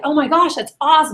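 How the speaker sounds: excited rep hyping it up. Shown as a demonstration. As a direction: gush as if thrilled by great news. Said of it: "you gotta get excited".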